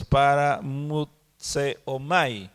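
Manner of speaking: paramutseomai slowly, syllable by syllable; measured, careful paramutseomai; careful Greek pronunciation. Shown as a demonstration. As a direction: sound out paramutseomai with deliberate gaps. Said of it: "No mastico mucho bien el griego".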